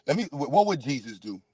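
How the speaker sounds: low, calm holy-man voice; mock pious preacher. Streamer pretending to calm himself for viewers, mock pious. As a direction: play a gentle preacher to cool down. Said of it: "Let me bring it back, y'all".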